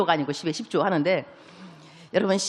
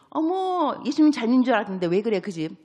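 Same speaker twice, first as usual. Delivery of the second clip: gossipy busybody; 2 semitones higher than usual. Acted. Gossiping church neighbor.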